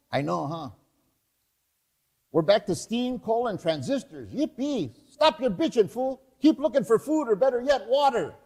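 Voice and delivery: a hint of a bored street thug; casual cholo banter; lightly voiced cholo. Scavengers keep bickering.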